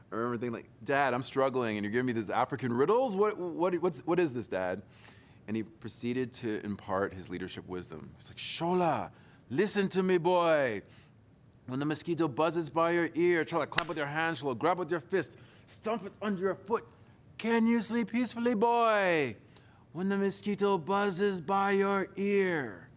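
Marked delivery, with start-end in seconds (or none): 0.8-4.8 put-on exasperated teenager. Teen self protesting to dad. 8.4-22.9 high, loud preaching father; dad's voice. Retold or imitated. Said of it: "in a voice I can do pretty well by now".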